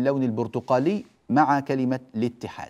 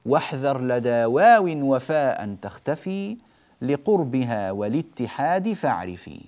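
recited verse; 4 dB louder, slower than usual. Shown as a demonstration. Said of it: "فقال".

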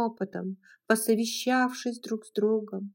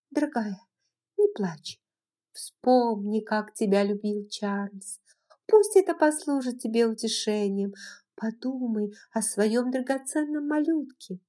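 whispered comfort; 2 semitones higher than usual. Acted. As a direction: soothe her gently.

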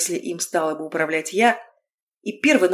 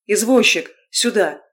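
flag down the cab driver; calling out; 2 semitones higher, 4 dB louder than usual. Acted. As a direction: call the cab over, raised voice.

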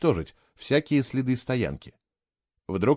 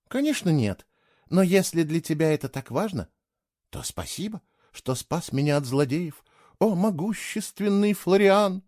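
sarcastic; 6 semitones higher than usual. A narrator's reading. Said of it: "съязвила она". (язвительно, с издевательской торжественностью)

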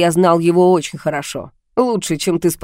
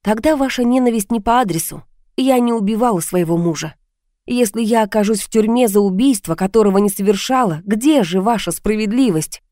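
higher, earnest voice of the heroine; protesting heroine; 4 semitones higher than usual. Acted. Heroine telling the caller she killed nobody, mildly indignant. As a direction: plead innocence with a touch of indignation.

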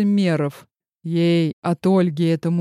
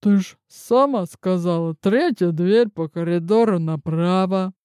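второй старушечий голос. Acted. Другая старуха отвечает.

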